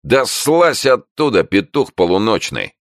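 put-on loud, high Irish-accented order; Irish cop ordering a man down; Irish command. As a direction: bark it with an Irish lilt. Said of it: "с ирландским выговором скомандовал".

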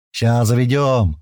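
slow, mildly cheerful promise; a touch of joy, words drawn out. Acted. Иван reassures about starting the car, cheerfully. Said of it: "радостно произнёс Иван".

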